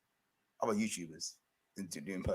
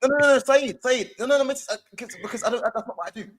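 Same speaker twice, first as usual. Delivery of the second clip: much higher, louder, frantic no no no; much higher and louder mock pleading; high, loud panicked refusal impression; 11 semitones higher, 6 dB louder than usual. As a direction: beg off in a shrill comic voice. Acted refusal to Saeed.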